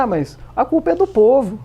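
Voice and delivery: lightly mimicked presidential speech; Dilma impression. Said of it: "um personagem que imita a, a presidente afastada". (imitação leve da Dilma)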